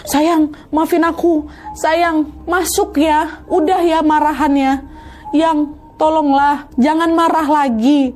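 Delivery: high, slow begging voice; wife pleading with her husband. Retold or imitated.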